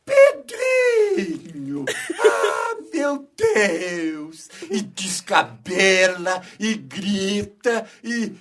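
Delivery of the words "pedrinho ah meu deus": very high, drawn-out shriek of Pedrinho; hysterical aunt shriek. Retold or imitated. Aunt jumps up at the fallen baby, hammed-up hysterical shriek. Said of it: "Aí levanta".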